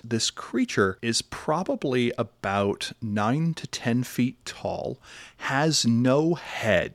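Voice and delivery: slow, measured narration with weighted pauses; game master's scene-setting. A narrator's reading. Game master unveiling a rising creature to players, scene-setting. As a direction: describe it deliberately, stretching key words.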